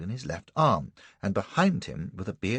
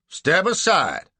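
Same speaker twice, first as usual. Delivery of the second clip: gruff order; 10 semitones higher, 8 dB louder, slower than usual. Acted. Slave catcher orders.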